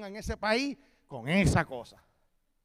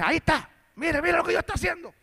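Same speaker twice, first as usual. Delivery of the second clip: announcing to crowd; 9 semitones higher, 11 dB louder than usual. Retold or imitated.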